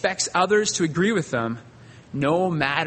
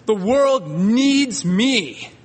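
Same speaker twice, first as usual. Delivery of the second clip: arrogant genius; slower than usual. Retold or imitated. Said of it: "he says to them".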